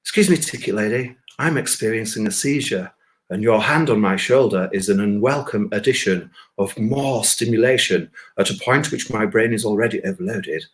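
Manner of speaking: lightly done polite BBC announcer; overly courteous, measured request; reassuring BBC voice. Pretend. To the ticket lady, a mild posh polite BBC voice. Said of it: "reassuring B B C voice".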